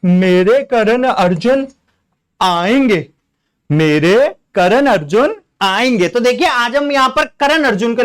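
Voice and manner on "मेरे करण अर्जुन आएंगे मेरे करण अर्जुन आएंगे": slow, drawn-out dramatic film dialogue; hammed-up movie line; filmy mother's plea. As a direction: deliver it like a grieving Bollywood mother. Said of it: "उसमें एक वो dialogue है".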